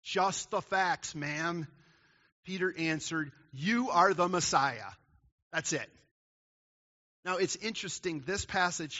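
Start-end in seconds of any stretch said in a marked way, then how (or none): 0.0-1.7 slow, punched-out words in a matter-of-fact quote; succinct. Acted. Preacher quotes a catchphrase to sum up Peter's answer, succinct. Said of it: "remember, succinct". 3.5-4.9 loud, slow, firm statement; simple declaration. Retold or imitated. Peter answers Jesus' question, a simple emphatic declaration. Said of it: "Peter says this very simply".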